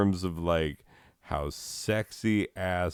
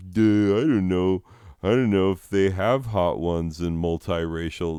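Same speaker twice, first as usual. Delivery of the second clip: dumb guy voice; 4 dB louder than usual. Retold or imitated. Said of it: "these fucking morons will continue to be like".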